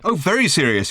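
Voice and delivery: mock-serious sarcastic outburst; sarcastic shout. Arthur mocks Ford's alarm, sarcastic outburst. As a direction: throw his words back at him with scorn. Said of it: "he shouted".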